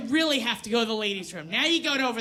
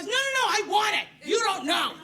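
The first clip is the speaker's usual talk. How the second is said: raised high, louder pleading; mock exasperated shout; 7 semitones higher, 3 dB louder than usual. Real, not acted. Comic to crowd, louder insisting on menopause. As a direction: insist you want menopause, half-shouting. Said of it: "protesting menopause to crowd".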